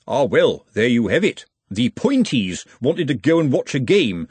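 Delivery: a lightly voiced sly, nosy busybody; insinuate, fishing for a reaction; lightly voiced sly snoop; sly nosy watchman. Ottomy's voice.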